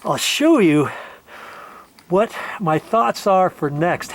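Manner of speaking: ordinary talk, nothing marked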